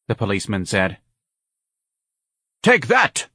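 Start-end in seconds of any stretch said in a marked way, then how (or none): 2.6-3.3 high, loud outburst; sudden high-pitched yell; triumphant cry. A narrator's reading. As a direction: cry it out as you strike a blow. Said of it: "Ignatius cried".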